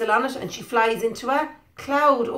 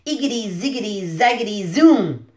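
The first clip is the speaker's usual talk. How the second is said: muttered spell. Acted. Reading to a child, the witch murmurs her spell. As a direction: chant it like a spell. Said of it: "she muttered a spell".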